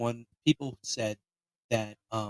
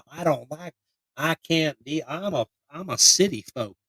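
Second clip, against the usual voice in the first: mock country accent; 2 semitones higher than usual. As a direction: parody a country local. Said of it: "people were kind of more like".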